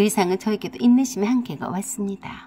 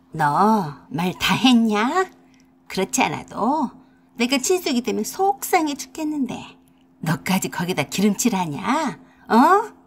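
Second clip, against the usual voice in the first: angry mother-in-law. Acted. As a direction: snap back as the offended mother-in-law. Mother-in-law scolding in argument.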